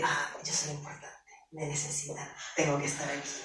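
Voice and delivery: hushed, self-satisfied whisper; whispered smug thought. Pretend. Employee whispering her puffed-up thoughts to herself. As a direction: whisper it like a flattered secret. Boss flatters, inflated ego thinking.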